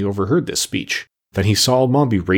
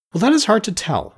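higher, earnest pumpkin-man voice; 11 semitones higher than usual. Acted. Jack Pumpkinhead answers the witch, higher earnest voice. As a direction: muse it in Jack's higher voice.

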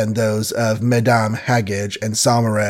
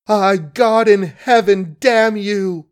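higher and louder the second time; screaming curse; 8 semitones higher, 3 dB louder, slower than usual. A narrator's reading. Margaret screams at the man who killed Billy. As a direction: hurl the curse at him. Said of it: "she screamed".

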